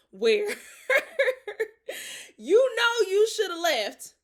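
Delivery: high, laughing through the words; laughing so hard the voice breaks. Real, not acted. Laughs at the memory.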